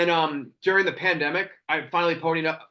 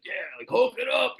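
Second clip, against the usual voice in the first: higher-pitched mock coach yell; imitated yell; 7 semitones higher than usual. Workout video host yelling at him in the gym, mock yell. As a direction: bark it like a hyped-up workout instructor. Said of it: "like, yelling at me".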